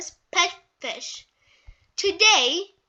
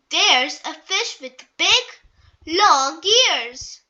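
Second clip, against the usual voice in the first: gasping; 6 dB louder, slower than usual. Acted. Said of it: "gasps Daddy Pig".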